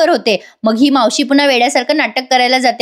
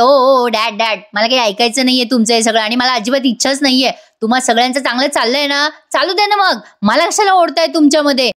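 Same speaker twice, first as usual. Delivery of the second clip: snappy dismissive son. Retold or imitated. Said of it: "Ashwin अतिशय विक्षिप्तपणे बोलतो".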